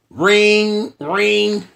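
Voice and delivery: mock phone ring; phone ring imitation. Shown as a demonstration. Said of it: "Let's try this one more time".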